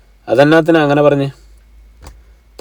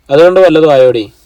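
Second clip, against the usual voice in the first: louder, sharp rebuke; 1 scolding mother; 2 semitones higher, 6 dB louder than usual. Acted. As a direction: throw the question at her, loud. Mother scolds daughter about money. (പണത്തെച്ചൊല്ലി മകളെ ഉറക്കെ ശാസിക്കുന്ന അമ്മ)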